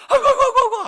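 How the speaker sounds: high, loud laughing wail of pain; mock wailing. Preacher imitating a patient wailing on the cart. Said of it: "소리를 지르는데".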